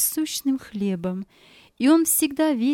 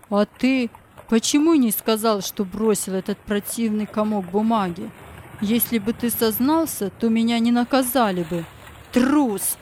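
angry accusation. Acted. Tip accuses Bob of cowardice.

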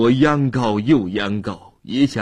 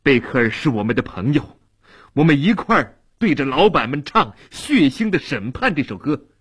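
excited; 4 semitones higher than usual. Acted. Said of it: "兴奋地说".

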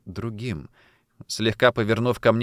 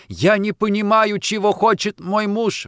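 much higher, louder distressed outburst; upset exclamation; 10 semitones higher, 5 dB louder than usual. Acted. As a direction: blurt it out in despair. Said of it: "воскликнула я". (взволнованно воскликнуть)

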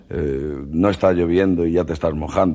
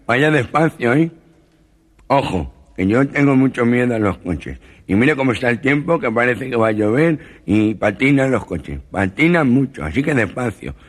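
nasal, nervous put-on voice, somewhat higher; fussy nasal passenger pleading; nervous comic nasal voice; gangoso voice; 5 semitones higher than usual. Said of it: "Y dice al taxista".

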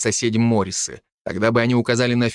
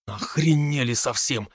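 slow, softer angry muttering; angry grumble; 4 dB quieter, slower than usual. Acted. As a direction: grumble it under your breath. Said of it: "со злостью пробурчал Дарт".

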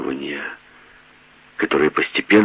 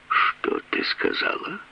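stunned hush; 14 semitones higher, 8 dB quieter, slower than usual. A narrator's reading. Husband stunned by accusation.

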